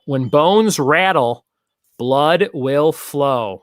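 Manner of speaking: slow, booming movie-trailer voice; drawn-out ominous announcement; slow dramatic trailer read. Pretend. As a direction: announce it like an ominous horror tagline. Host reading spooky movie subtitle.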